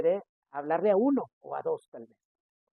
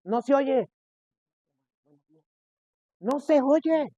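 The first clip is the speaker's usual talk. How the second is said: higher, louder call of no se oye; calling out can't hear; 7 semitones higher, 5 dB louder, slower than usual. Retold or imitated. Parent calling to a mumbling child, loud. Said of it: "cuántas veces pasa con los niños".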